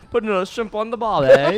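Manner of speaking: high-pitched, hammed-up Australian accent; mock Australian accent. Shown as a demonstration. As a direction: overdo a cartoon Aussie accent. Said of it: "That's the only accent I can do".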